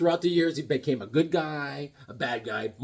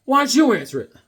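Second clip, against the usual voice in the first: higher, louder brother; a hint of an annoyed brother; mock yell; 8 semitones higher, 6 dB louder than usual. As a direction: snap back at dad. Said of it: "was like".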